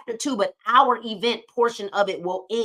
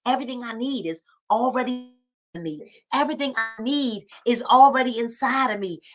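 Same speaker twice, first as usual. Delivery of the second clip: said out loud; 4 dB louder than usual. Shown as a demonstration. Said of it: "and say it loud".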